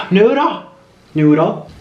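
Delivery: high sing-song name call; calling pet's name. Real, not acted.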